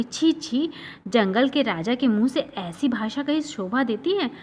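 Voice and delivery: making a face. Acted. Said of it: "अजीब सा मुंह बना के बोली".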